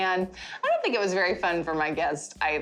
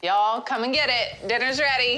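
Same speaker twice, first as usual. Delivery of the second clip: loud call to the crew; yelling across the room; 4 semitones higher, 3 dB louder than usual. Real, not acted. Calling crew to dinner.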